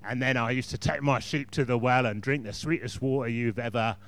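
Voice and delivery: a hint of a gruff warrior king; gruff monotone voice. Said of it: "with a sort of monotone, gruff voice".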